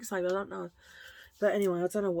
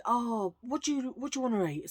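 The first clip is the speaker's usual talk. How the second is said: mock friend asking; 5 semitones higher than usual. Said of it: "Caddy said".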